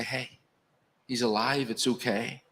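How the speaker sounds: hushed, tender telling; softly comforting the weeping woman; soft reassurance. Retold or imitated. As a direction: quietly reassure someone grieving. Mary comforted at the tomb.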